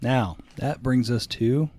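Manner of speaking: drawn-out slow lead-in; slow teasing segment intro. Shown as a demonstration. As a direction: stretch it out, stalling. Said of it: "God damn it, I'm not ready".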